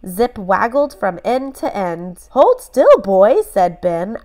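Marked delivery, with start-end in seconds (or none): 2.3-3.4 high, loud command to the dog; firm call. A narrator's reading. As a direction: tell the wriggling dog to keep still. Freeing the trapped dog.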